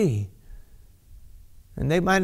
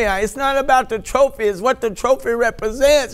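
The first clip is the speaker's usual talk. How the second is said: higher, fervent restatement; a touch of rising excitement; raised with fervor; 5 semitones higher than usual. Real, not acted. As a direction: say it again as it floods back. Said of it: "I just say it again. It comes back to me".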